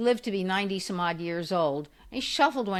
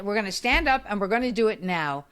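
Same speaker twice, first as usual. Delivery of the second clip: firm command. Retold or imitated. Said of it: "I can also be very stand".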